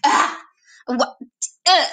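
short gremlin grunts and squawks; small wordless bursts of frustration; quick gremlin-like blurts; little gremlin noises. Shown as a demonstration. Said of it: "they're little noises like".

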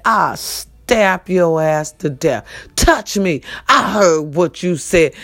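low, slow menacing threat; threatening. Retold or imitated. Woman with a butcher knife warns the man, slow and menacing.

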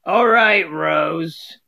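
lightly voiced Dorothy addressing Rose; sketching Dorothy's inflection, not the real voice. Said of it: "inflections of each of the characters".

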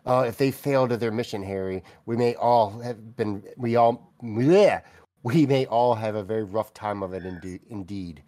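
mock-solemn admission of defeat, sinking at the end. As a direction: grimly concede defeat, tongue in cheek. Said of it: "they've been defeated. They're like".

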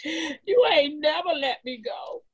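crying. Acted.

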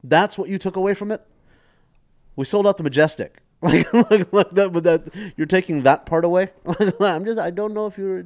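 hammed-up disbelief at his dad; replaying his own exasperated comeback, loud and high; indignant retort.

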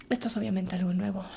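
hushed confession; whisper. Real, not acted. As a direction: breathe it out softly. Confessing softly. (susurrado, confesión íntima)

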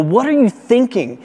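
mock the crowd shushing the beggar; harsh disapproval. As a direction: crowd scolding the blind beggar, harsh and dismissive. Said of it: "this harsh disapproval".

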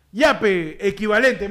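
slow, drawn-out game-show announcement; quiz show host. Pretend. Host poses a Yape prize question, slow quiz-show announcing. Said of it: "Música de ¿Quién quiere ser millonario?".

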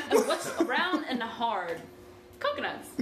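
slow, laughing riddle. Real, not acted. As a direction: giggle through the question.

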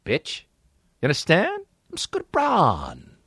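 lightly voiced music manager pitch; a hint of a slick talent agent; Scooter Braun impression. Doing Scooter Braun pitching to a kid, lightly voiced. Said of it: "My Scooter Braun impression".

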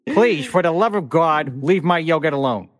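lightly put-on pleading memo voice, slowed; mock formal character voice. Cohost ends the break-room memo in a mock character voice. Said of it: "reading all of my emails in different character voices".

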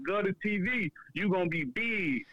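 lightly voiced hype-man catchphrase; a hint of a rapper's shout-out tag; a rapper's sound bite. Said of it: "He made his sound bite like".

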